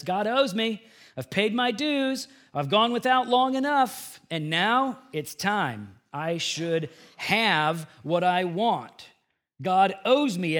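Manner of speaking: mildly indignant, insistent claim; entitled demand. Acted. Preacher voicing believers who think God owes them, entitled.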